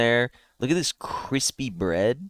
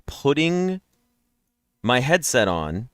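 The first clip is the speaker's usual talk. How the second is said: yawning; 4 semitones higher, slower than usual. Real, not acted. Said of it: "now I'm yawning again".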